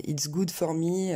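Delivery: "good" with a long French ou, slowly; slow French learner's "good", like gooood; French-accented mispronunciation. Shown as a demonstration. Teacher showing learners' ou habit, French-accented mistake. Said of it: "tendance à prononcer en ou".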